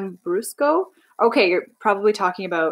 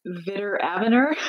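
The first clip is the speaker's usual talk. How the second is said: "Vitor Aviner" anglicized in a Canadian accent; Canadian-accented "Vitor Aviner", r-coloured endings, questioning rise. Shown as a demonstration. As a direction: say "Vitor Aviner" as a plain Canadian would, first syllables stressed. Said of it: "in a Canadian accent".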